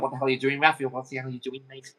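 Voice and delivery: imitating a Scouse player's grumble; Scouse accent. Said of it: "Probably in a Scouse accent".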